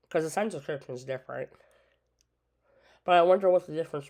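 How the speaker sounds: talking around a cough drop; mouth full. Real, not acted. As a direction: lozenge in mouth while talking. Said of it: "I got a cough drop in my mouth too".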